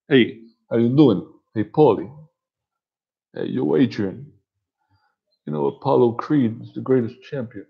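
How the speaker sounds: lightly imitated movie boxer; casual greetings in a put-on boxer voice; Rocky. Boxer greeting Paulie and Adrian, lightly imitated. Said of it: "do Rocky".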